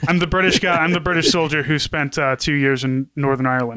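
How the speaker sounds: put-on British soldier accent; wobbly Cockney-meets-Brummie accent; mock Cockney. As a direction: play a comic British squaddie. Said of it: "sound like you're trying to be Cockney".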